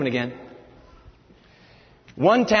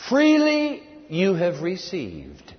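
slow dictation; much slower than usual. Shown as a demonstration. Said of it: "moral dictated slowly".

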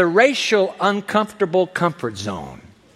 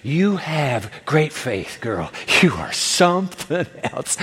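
slow, savored compliment; marveling, affectionate delivery; admiring praise; 3 dB quieter, slower than usual. Acted. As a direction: draw it out in admiration. Jesus marvels at the woman's faith.

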